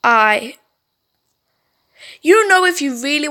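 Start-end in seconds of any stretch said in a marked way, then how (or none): 0.0-0.6 whisper. Acted. Andy stunned in story.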